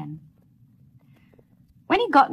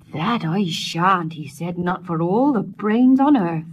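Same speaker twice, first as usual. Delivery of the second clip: slow, louder, resolute refusal; firm refusal; 7 dB louder, slower than usual. Acted. Peter to himself, a slow loud refusal. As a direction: put your foot down slowly.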